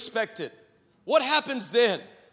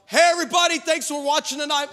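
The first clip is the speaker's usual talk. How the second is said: pitched-up on-air hello; TV host greeting; 4 semitones higher, faster than usual. Retold or imitated. Dad greeting viewers as red light comes on, TV host voice. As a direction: open the show as a cheery host.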